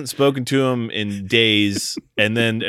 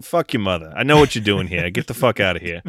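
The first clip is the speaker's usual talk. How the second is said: put-on New Jersey accent. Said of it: "start talking in a New Jersey accent like".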